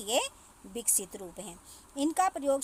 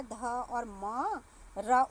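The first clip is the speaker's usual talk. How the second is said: slow letter-by-letter; much slower than usual. Shown as a demonstration. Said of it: "तो क्या बन गया".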